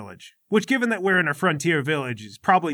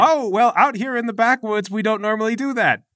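prim Patricia; 9 semitones higher, 6 dB louder than usual. Acted.

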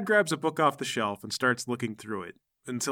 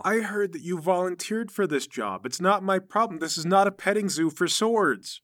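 higher-pitched, exasperated official; irritated refusal; 6 semitones higher than usual. Acted. Armory guard turns down the request, irritated and higher-pitched. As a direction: refuse them firmly in a raised pitch.

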